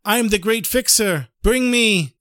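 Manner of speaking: high-pitched street hawker's call; mock yell. Great fixer touting for work in the streets, mock yelling. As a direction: call out for customers, lightly hammed up. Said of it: "walked into the streets of the world yelling".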